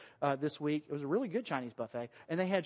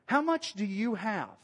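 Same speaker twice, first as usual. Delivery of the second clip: "How much do you have" drawn out slowly; slow, deliberate question; 3 semitones higher than usual. Acted. Preacher voicing Jesus asking the disciples, slow and deliberate.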